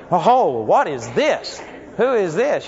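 a startled oh, then rising questions; puzzled surprise. Pretend. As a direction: sound baffled by good news. Mary puzzled by good greeting.

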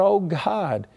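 imitating Moses crying out in desperation; crying out to God. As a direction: beg God for help in a rising cry. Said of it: "started crying out".

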